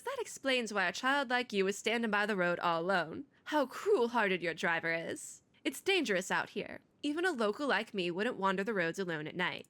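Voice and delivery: put-on Southern accent; Tuesday. Tuesday telling a child it's dangerous out here, Southern accent. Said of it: "give Tuesday the accent".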